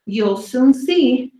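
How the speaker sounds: lively storybook read, slowed on the big words; reading to children. A narrator's reading. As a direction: read each dinosaur poem to the kids with relish. Reading dinosaur poems to children.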